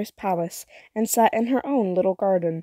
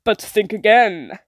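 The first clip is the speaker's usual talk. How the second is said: louder warning hag; ominous witch warning; sea witch voice; 5 dB louder than usual. Acted. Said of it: "said the witch".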